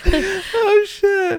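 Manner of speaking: very high, laughing out the words; giggle fit. Real, not acted. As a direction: squeal it while cracking up. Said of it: "He's having a giggle fit now".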